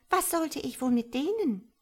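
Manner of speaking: high tadpole voice, unconcerned; indifferent. A narrator's reading. Tadpole dismisses the need for legs, indifferent. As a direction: toss the question off pertly. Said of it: "fragte die Kaulquappe gleichgültig".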